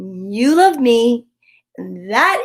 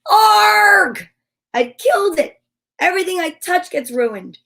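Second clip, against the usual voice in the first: anguished cry, much higher and louder at first, then fading; despairing wail; 7 semitones higher, 5 dB louder than usual. Acted. Charlie Brown crying out after ruining the little tree, despairing wail. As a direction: wail it like the tree's ruined for good.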